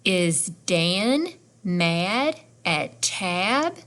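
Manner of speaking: very slow model reading, rising on TAB; question rise at the end. Shown as a demonstration. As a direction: show learners the question by lifting "Tab". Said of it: "our voice goes up at the end".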